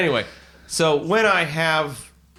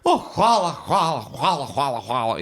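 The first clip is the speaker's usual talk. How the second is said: put-on grateful old woman; 5 semitones higher than usual. Beggar woman thanking him for the money, high gushing thanks. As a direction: gush thanks, then settle. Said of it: "And she was like".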